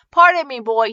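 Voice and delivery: high, loud opening hail; calling out. A narrator's reading. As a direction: call over to get attention. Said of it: "he called".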